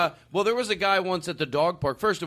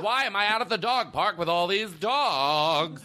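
drawn-out, higher-pitched dog character; mock dog voice; 5 semitones higher, slower than usual. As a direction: play a complaining dog, slowly. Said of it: "I have a voice for my dog".

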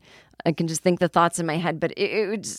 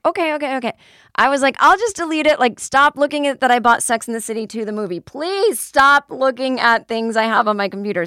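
higher, louder flustered pleading; panicked embarrassed pleading, pitched up; 6 semitones higher, 4 dB louder than usual. Retold or imitated. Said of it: "And I was like".

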